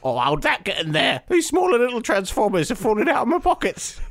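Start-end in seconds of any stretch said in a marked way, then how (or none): 0.0-1.8 high falsetto maid voice; squeaky flustered servant; Petunia voice. Acted. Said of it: "Now I'm Petunia".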